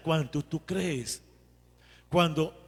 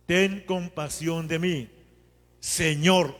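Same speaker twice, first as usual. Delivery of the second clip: oración de petición; 4 dB louder, slower than usual. Shown as a demonstration. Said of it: "Hace la oración de petición".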